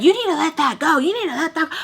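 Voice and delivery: high-pitched imitation of her demand; insistent quarrel voice, acted out; retold yelling. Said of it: "we're yelling back and forth".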